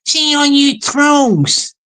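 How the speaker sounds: slow, lightly Scottish "All you trolls"; a hint of a funny Scottish guy, drawn out; Scottish accent. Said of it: "This is a Scottish guy saying it".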